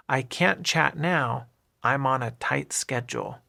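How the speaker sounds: "I'm on a" flowing together as one word; linked words. Shown as a demonstration. Teacher repeats the example sentence for learners, linking "I'm on a". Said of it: "is all linked together and sounds like one word".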